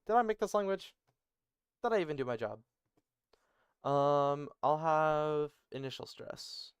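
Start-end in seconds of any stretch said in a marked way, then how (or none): 0.1-2.6 louder, higher, quick and amused; incredulous question breaking out of a laugh; laughing disbelief. Real, not acted. Laughing at own forgotten work.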